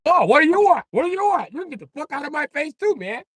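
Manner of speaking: very high, loud nasal-free whiny white voice; squeaky defiant white dude; high, indignant white guy squawk; mock white guy. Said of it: "you be like".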